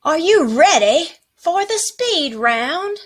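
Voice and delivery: teacher hyping the class for the speed round, excited; hyped-up announcer. Acted.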